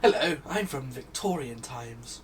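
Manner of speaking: Victorian gent voice. Acted. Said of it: "the reason why he is talking like that".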